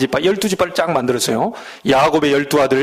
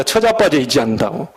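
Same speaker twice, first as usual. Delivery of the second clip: Jeolla dialect; 4 semitones lower than usual. Retold or imitated. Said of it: "그 전라도 말입니다".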